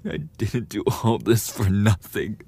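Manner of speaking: loud, high, crying outrage; tearful yelling. Acted. Rejected bully yells tearfully at the victim. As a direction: scream through the tears.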